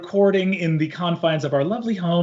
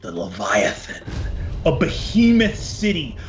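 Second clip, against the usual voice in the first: game master narration. Acted. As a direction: paint the sea voyage dramatically. DM sets the opening scene.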